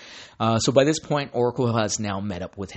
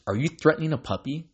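quick, raised, disbelieving; a light mock of a shocked goon; incredulous villain voice; 6 semitones higher, faster than usual. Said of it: "Backron says".

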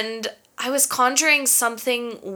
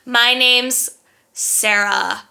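fake-nice laugh. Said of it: "So I was just like".

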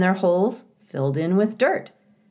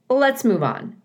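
high, louder chatty beaver; eager old beaver bargaining; 8 semitones higher, 5 dB louder than usual. A narrator's reading. Mister Beaver speaks.

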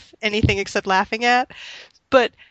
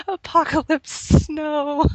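savoring the phrase; 7 semitones higher, slower than usual. Retold or imitated. Amused echo of co-host's phrase.

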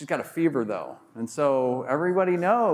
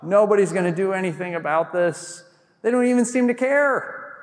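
distraught mouse; 5 semitones higher than usual. Acted. Mouse despairs after refusals.

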